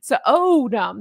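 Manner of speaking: "So, oh" broken in two like Spa Ace; mock mispronunciation. Shown as a demonstration. Host mocking the Spa Ace name, deliberately broken-up pronunciation. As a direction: split "So, oh" mid-vowel, then drop on "dumb". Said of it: "only gonna pronounce things like that".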